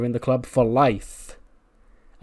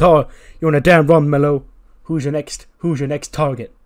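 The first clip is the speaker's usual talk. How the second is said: hype man cheer; 2 semitones higher, 8 dB louder than usual. Retold or imitated. Trick hypes Mello.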